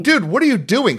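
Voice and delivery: mock indignation. Storyteller confronting the guy at the stall, incredulous retold voice. Retelling his startled confrontation in restroom.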